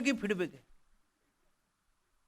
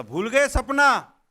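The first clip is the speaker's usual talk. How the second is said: mock booming reminder; 4 semitones higher, 6 dB louder, much slower than usual. Ghost reminds farmer of dream.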